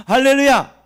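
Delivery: high, loud hallelujah out of laughter; exultant shout. Real, not acted. 웃다가 회중에게 외침. (크고 높게 외치는 할렐루야)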